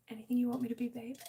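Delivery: playful purring tease; flirty tease. Pretend. Teasing flirt to chat.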